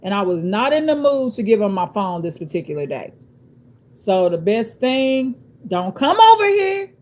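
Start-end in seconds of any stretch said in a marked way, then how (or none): 5.7-6.9 high, loud command; a clear stop order that leaves no doubt; authoritative voice. Shown as a demonstration. Showing viewers her God-given voice, authoritative. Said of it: "That's an authoritative voice".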